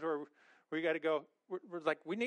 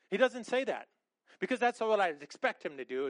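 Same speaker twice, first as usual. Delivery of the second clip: louder and higher, insisting; emphatic preacher; 3 semitones higher, 6 dB louder than usual. Real, not acted. Preacher to congregation, loud emphatic insistence. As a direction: slam the denial home.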